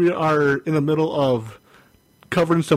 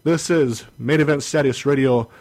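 show intro. Acted.

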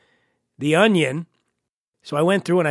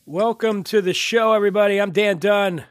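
stuffy head-cold voice; nasal voice. Real, not acted. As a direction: talk through a blocked nose. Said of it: "Apologies for the nasal twang".

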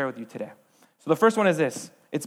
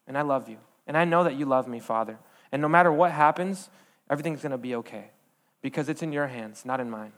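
tender prayer; 2 semitones lower than usual. Retold or imitated. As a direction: lay it gently into the Father's hands. Retold prayer of surrender.

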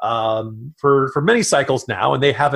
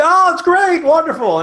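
much higher and louder, gushing; imagining the cheerful reaction if Russia were a normal country, mock gushing; mock delight; 5 dB louder than usual. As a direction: throw it up high like over-the-top glee. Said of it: "we'd be like".

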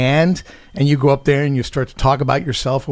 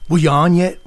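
a singer's voice; 3 semitones higher, 4 dB louder than usual. Retold or imitated. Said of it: "he would go".

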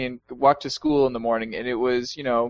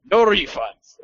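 imagined yell; 7 semitones higher, 5 dB louder, slower than usual. Retold or imitated. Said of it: "I just wanted him to yell".

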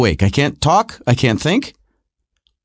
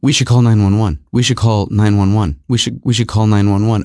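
insistent wife; 7 semitones lower than usual. Retold or imitated. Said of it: "So Melissa keeps saying".

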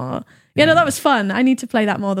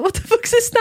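retold shock; 12 semitones higher than usual. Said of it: "I thought".

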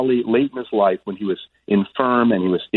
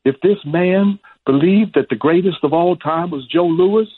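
high, measured champ's declaration; slow it down and declare it in a raised boxer voice; Muhammad Ali; 8 semitones higher than usual. Retold or imitated. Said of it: "He said".

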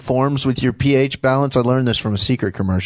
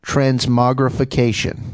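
slow and clear; slower than usual. Shown as a demonstration. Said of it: "Let's hear it one more time".

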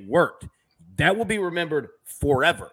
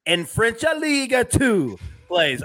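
hammed-up Italian accent, higher in pitch; 5 semitones higher, slower than usual. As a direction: put on a playful Italian accent, drawn out and lifted. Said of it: "gave it an Italian accent".

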